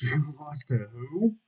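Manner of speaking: slow, rising, amused disbelief; laugh, then ask in mock shock. Incredulous reaction to the taunt.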